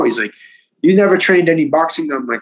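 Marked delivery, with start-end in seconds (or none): 0.8-2.1 surprised. Retold or imitated. Coach amazed at untrained newcomer.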